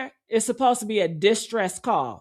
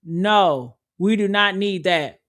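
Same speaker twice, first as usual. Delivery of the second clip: mocking casual refusal; 5 semitones lower than usual. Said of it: "And you know what he says?".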